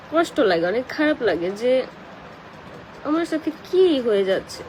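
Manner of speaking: choked up, crying while talking; tearful, voice catching on words; snotty crying. Real, not acted. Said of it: "আপু, কান্না করো না".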